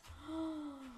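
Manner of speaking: soft, drawn-out gasp; shocked gasp. Acted. Shocked by what she just read.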